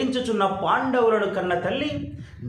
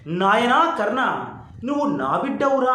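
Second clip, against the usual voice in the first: a mother's tender call again. Retold or imitated. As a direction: linger on నాయనా as if hearing it at last.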